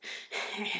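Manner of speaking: creature's muttering chuckle; Kreacher-style wheeze. Acted. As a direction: wheeze out a grumpy little laugh. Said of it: "it goes something a little like this".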